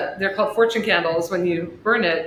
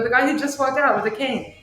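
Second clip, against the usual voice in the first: higher-pitched retold insistence; insistent; 6 semitones higher than usual. Shop owner explains to husband who she means, insistent. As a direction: replay pointing out the obvious, pitched up.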